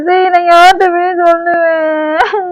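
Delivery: slow, drawn-out mock lament; put-on crying. Wife asking whom else she can tell, mock lament. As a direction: wail it out self-pityingly. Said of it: "அழுகுறேன்ல".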